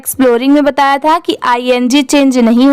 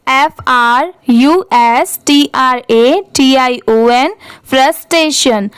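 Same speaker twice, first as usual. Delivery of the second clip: slow spelling; slower than usual. Shown as a demonstration. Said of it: "spelling drill".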